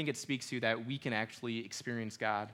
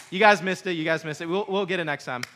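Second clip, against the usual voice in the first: playful loud teasing; 5 semitones higher, 10 dB louder, faster than usual. Real, not acted. Teasing crowd for missing cue.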